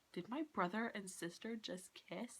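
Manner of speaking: soft, dazed question in Jamie's place; imitated bewildered question, hushed; mock stunned disbelief. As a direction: ask it quietly, as if blinking in shock. Voices Jamie staring, blinking, stunned.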